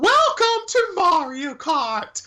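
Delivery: very high-pitched voice pushed up to sound like a woman. Host introducing a new ride: Mario voice sounding like a woman. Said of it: "I just made Mario sound like a woman".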